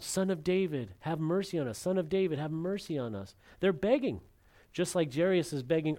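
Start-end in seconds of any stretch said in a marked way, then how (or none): 0.0-3.4 half-acted plea for mercy; mock pleading cry. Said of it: "They're just crying out".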